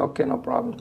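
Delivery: high, breathy mock reassurance; mock rabbi reply. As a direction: toss off the rabbi's easy answer in a high, breathy voice. Rabbi answers his plea.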